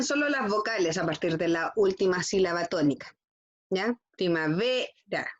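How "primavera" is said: "Primavera" slowed, VE stretched before "ra"; stress on VE. Shown as a demonstration. Teacher marks the tonic syllable for pupils, stressing VE in "Primavera". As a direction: hold the VE of "Primavera" and break before the last syllable. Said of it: "ahí se marca".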